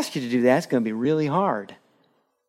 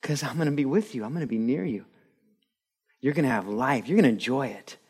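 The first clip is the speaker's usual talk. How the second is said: softer, gentle promise in God's voice; softly reassuring, a tender divine promise; reassuring Lord; 3 dB quieter than usual. Acted. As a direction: comfort them quietly as the Lord would. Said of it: "The Lord is saying".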